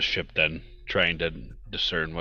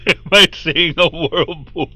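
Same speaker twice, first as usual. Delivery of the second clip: alarmed; 11 semitones higher, 14 dB louder than usual. Acted. Alarmed look at the water.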